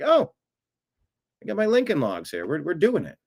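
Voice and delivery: high, gleeful mock excitement; mock excited. Host imagining a viewer's building progress, giddy mock excitement. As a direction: play the giddy kid building a house.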